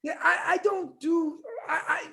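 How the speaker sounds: real nervous protest with false starts. Real, not acted. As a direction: stumble over it, flustered. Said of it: "Look at him getting nervous".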